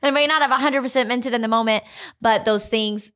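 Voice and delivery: high, quick words through a laugh; laughing admission. Real, not acted. Laughing admission after her retold prayer.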